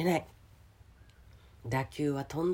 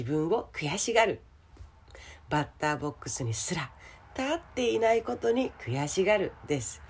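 rough, scratchy throat; hoarse voice; 2 semitones higher than usual. Real, not acted. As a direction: talk through a sore throat. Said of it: "今日は声がガラガラでございますね".

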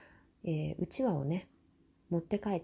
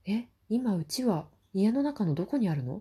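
alarmed realisation; 2 semitones higher, 5 dB louder than usual. Retold or imitated. Panicked realisation of lost fan.

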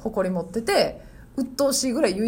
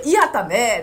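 louder Osaka-style honorific; Osaka dialect; 6 dB louder than usual. Shown as a demonstration. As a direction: demonstrate firmer Osaka-dialect phrasing. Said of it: "言いはるって言うんですよ". (強めの大阪弁で)

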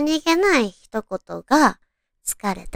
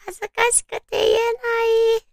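much higher, fast and flustered; 恥ずかしそうな声; 11 semitones higher, faster than usual. Acted. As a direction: blurt it out, embarrassed. 照れたセリフを演じる. (照れて早口で言う)

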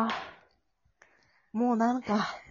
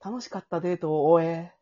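narration; 3 dB louder than usual. Acted. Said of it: "ナレーションから失礼いたします".

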